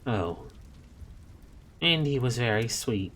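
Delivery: fond, wistful memory; wistful nun recalling a baby. Acted. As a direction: remember the baby tenderly. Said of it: "said Mary Hodges wistfully".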